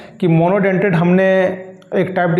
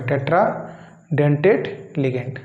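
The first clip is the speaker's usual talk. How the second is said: slow spelled-out term; 3 semitones lower, 5 dB quieter, much slower than usual. Shown as a demonstration. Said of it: "क्या नाम पड़ेगा?".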